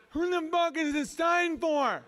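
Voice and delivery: high, slow imitation of a deaf kid; mock deaf kid's voice. Deaf kid complaining about the sign, mock deaf voice. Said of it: "He's like".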